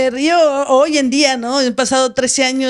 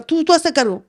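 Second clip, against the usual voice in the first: higher-pitched, upset command; retold agitated urging; 7 semitones higher than usual. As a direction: re-enact an upset brother handing over responsibility. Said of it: "Mi hermano estaba alterado también".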